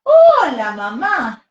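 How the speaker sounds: high, eager little chick; baby bird voice. Acted. Baby bird greeting who it thinks is mom, high little voice. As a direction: squeak it out like a tiny newborn bird.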